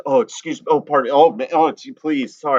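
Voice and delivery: flustered mock politeness, one apology tumbling into another; over-apologetic. Guest showing how Canadian they are when out, hammed-up apologizing. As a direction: act out apologizing to everyone you pass.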